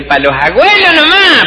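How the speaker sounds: high put-on voice asking; timid question. Drinks server asking if the beer is only for grandparents, high put-on voice. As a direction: ask it naively. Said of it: "preguntar y dice".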